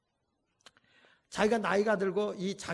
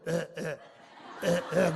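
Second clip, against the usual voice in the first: mock blissful husband; 3 semitones lower, much slower than usual. Mocking flattered husband.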